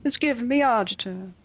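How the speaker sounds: Sicilian. Acted. Reader imitating a Sicilian's intonation, playful mock Sicilian accent. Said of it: "like a Sicilian would be like".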